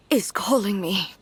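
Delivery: hushed, breathless whisper. Acted. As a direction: barely voice it. Weak character hears a call.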